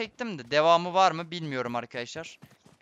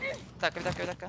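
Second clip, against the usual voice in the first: soft, tense repeated wait; much softer tense murmur; hushed; 10 dB quieter, much faster than usual. Real, not acted. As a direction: hold your breath and go quiet.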